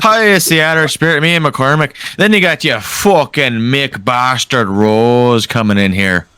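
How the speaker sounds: mock Irish lilt; Irish accent. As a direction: toss off a pub Irish line. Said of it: "Irish accent".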